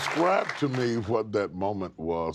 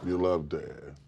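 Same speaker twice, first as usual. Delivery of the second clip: tender echo; 4 semitones lower, slower than usual. Real, not acted. Host softly echoes child.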